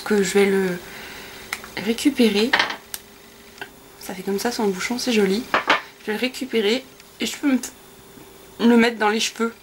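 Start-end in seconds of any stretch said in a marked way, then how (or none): 6.0-9.5 talking through hiccups. Real, not acted. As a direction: speak while hiccuping. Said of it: "j'ai le hoquet".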